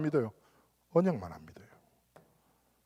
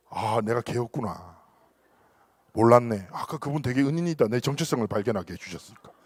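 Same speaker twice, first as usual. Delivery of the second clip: mock dumb realization; 6 semitones lower than usual. Mock dumb realization after insult.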